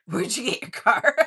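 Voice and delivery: high, loud mock of the guy's question. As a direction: squeak it out like a clueless stranger.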